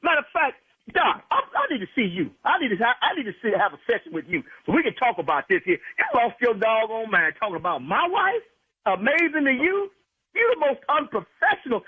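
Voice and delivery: furious husband threatening the doctor; heated warning. Real, not acted. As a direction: warn him off, dead serious. Husband outraged at prank doctor.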